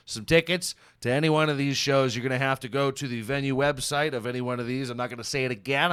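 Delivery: rushed and short of breath; winded, hurrying the words out. Real, not acted. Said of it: "I'm kinda out of breath".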